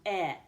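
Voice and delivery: "eh" as an isolated short vowel; short E sound. Shown as a demonstration. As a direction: say a short, open "eh". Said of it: "make the short E sound".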